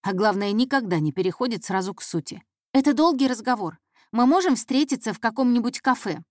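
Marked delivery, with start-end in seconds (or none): 2.7-6.2 put-on higher, earnest girl making a request; hopeful intern. Intern asking the detective to meet, hopeful. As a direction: ask hopefully for a meeting.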